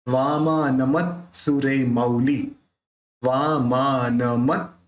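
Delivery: slow, syllable-by-syllable वामानमत; तोड़ के, धीरे. Shown as a demonstration. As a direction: stretch वामानमत out in small pieces. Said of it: "थोड़ा थोड़ा तोड़ के बोलेंगे". (वामानमत को धीरे-धीरे तोड़ कर)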